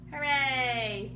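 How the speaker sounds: happy hooray for listeners; cheer. Real, not acted. Closing cheer to children.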